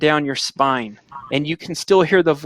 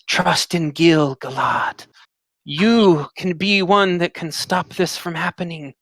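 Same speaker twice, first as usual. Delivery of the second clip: slow, otherworldly voice speaking into your mind; slow, faraway oracle voice; mysterious dream voice; slower than usual. Acted. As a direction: intone it like a distant spirit.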